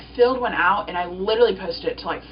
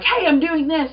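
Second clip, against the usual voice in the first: mock announcement; 8 semitones higher, 5 dB louder than usual. Acts out announcing her role.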